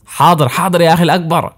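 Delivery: put-on high-pitched, eager boy's voice; obey big brother with keen excitement; enthusiastic. A narrator's reading. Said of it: "وأجاب الفتى مون بحماس". (بحماس وبصوت فتى مرتفع الطبقة)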